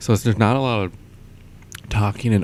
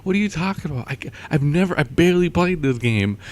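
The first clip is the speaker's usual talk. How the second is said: incredulous protest; 8 semitones higher, 4 dB louder than usual. Retold or imitated. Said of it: "I'm like".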